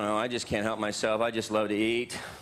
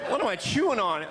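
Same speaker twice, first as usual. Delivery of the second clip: mock queasy eater; 9 semitones higher than usual. Comedian acting out leaving White Castle, mock queasy. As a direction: whine like someone sick from sliders.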